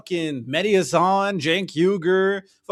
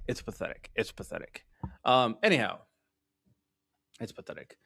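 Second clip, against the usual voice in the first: each repeat softer until almost whispered; fading mutter; 6 semitones lower, 8 dB quieter, faster than usual. Real, not acted. Streamer repeating himself, trailing off to a whisper. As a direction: let it die away to a breath.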